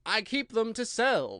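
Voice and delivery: a hint of a nervous hatter thinking; slow hesitant character voice. A narrator's reading. Hatter explains.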